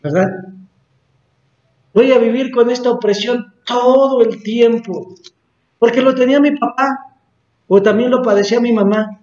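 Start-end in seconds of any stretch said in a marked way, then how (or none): 1.9-9.2 imitated resigned complaint. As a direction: mimic someone accepting an inherited burden. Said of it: "Usted a lo mejor dice". (lamento imitado, agudo y resignado)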